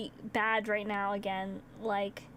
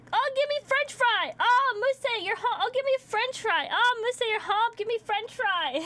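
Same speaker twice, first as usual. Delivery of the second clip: high, loud, breakneck pet voice; excited begging dog; 10 semitones higher, 4 dB louder than usual. Retold or imitated. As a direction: beg like an overexcited dog. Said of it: "And then he was like".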